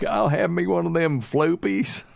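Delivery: high, hammed-up mother-in-law ordering; comic high-pitched customer voice; imitating mother-in-law. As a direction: mimic her placing a regular order. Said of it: "going through the line every day going".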